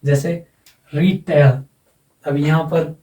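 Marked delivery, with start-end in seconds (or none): 0.9-1.6 रीटेल with a long, lightly stressed री; secondary stress on री. Shown as a demonstration. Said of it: "secondary stress यहाँ आएगा".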